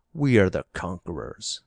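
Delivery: a lightly voiced defiant son, bold claim; mildly voiced proud son asserting his right to the spoils; bold young son. A narrator's reading. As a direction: push it out boldly, lightly changed voice. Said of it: "asserted the latter boldly".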